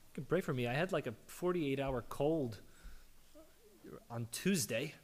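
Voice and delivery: hoarse, worn-out voice; losing voice. Real, not acted. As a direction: speak through a fading, hoarse voice. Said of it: "apparently I'm losing my voice this morning".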